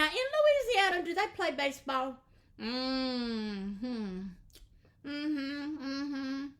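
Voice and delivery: gum still in mouth; chatting through chewing gum. Real, not acted. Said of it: "take this stuff out of my mouth".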